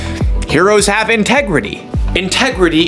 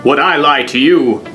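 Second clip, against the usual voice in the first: villain voice. Pretend. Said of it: "pretend to be the villain".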